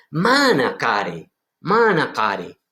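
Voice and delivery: slow, careful Aramaic reading of manacare. Shown as a demonstration. Teacher reading the Aramaic phrase to students, slowly. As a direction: sound out manacare syllable by syllable. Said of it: "esto es lo que dice".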